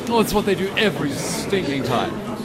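irritated posh British grumble; King Charles imitation. Host continues the King Charles pen tantrum, British accent. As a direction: sulk about the pen like a royal. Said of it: "how King Charles sounds".

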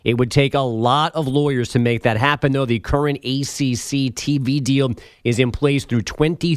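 brisk, steady radio headline delivery; sports news read. Acted. Update anchor giving listeners college conference headlines, news read.

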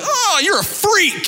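high, slow teasing put-down; mock disgust. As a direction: stretch it out, grossed out but joking.

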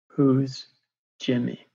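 deliberate words with a pause between; weighty retold challenge; slow, pointed question. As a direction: repeat it firmly, one word at a time.

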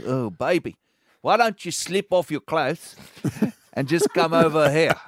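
mock seduction in South African; South African accent. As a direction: croon a hammed-up South African come-on. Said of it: "It's so romantic".

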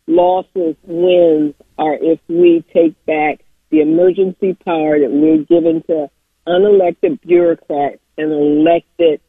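distorted voice over a speakerphone; speakerphone distortion. Real, not acted. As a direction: caller sounding tinny and fuzzy on speaker. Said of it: "You sound very distorted".

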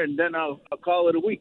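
blocked nose, short of breath; stuffy nose. Real, not acted. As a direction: talk through a stopped-up nose. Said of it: "sounds like you're a little out of breath".

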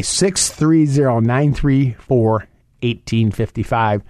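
each digit of the phone number spelled out slowly; slow down so listeners can write it down. Shown as a demonstration. Radio host repeating his phone number slowly for callers. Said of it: "Let me say that slower".

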